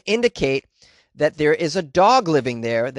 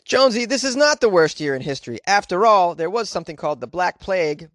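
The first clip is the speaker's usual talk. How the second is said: higher, lightly voiced know-it-all objection; chiding corrector; 3 semitones higher than usual. Imagined listener corrects Jonesy on history, lightly mock chiding. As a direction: interrupt to set the host straight.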